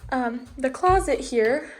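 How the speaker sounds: hiccup cutting into the words. Real, not acted. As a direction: talk through the hiccups. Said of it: "sorry, I have the hiccups".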